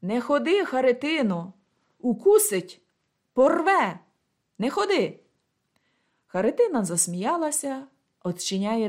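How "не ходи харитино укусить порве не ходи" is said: frightened shout. Acted. Galya crying out to stop Kharytyna, frightened shout. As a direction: call out in alarm to stop her. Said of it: "а Галя кричить".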